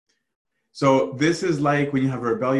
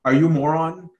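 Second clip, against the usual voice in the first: exasperated anger; 3 semitones higher, 3 dB louder than usual. Acted. Preacher acts out a man mad at his brother, exasperated. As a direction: berate a brother in disbelief. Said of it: "somebody so mad at his brother".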